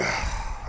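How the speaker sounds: weary exhale before answering; acted sigh of forced patience; exasperated sigh. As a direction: let out a put-upon sigh. Fed up with drunk customer, retold.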